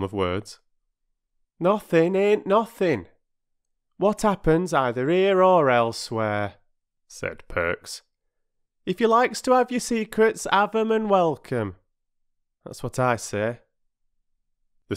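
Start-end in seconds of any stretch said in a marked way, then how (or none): 1.6-13.6 loud, high-pitched offended working man; rustic porter in a huff; huffy porter. A narrator's reading. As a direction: lay it down with injured pride. Voices Perks the porter.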